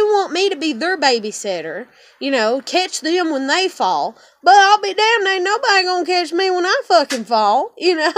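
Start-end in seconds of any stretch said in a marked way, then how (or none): 4.4-8.1 louder and higher, real fury; fed up and shouting defiance; angry outburst. Real, not acted. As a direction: spit it out in defiance. Angry rant about family.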